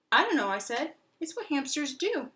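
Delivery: high, loud defensive answer; insist, a bit flustered; squeaky defensive hamster; hamster reply. Acted.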